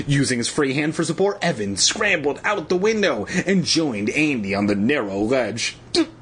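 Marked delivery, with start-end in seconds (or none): 5.9-6.1 high, slow, trembling voice. A narrator's reading. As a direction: quaver it with fear. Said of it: "Andy instructed in a trembling voice".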